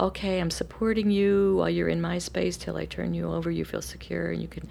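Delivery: soft, fading reassurance; soothing mother. Retold or imitated. Mother reassuring her toddler, softly and calmly. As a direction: gently settle a clingy child.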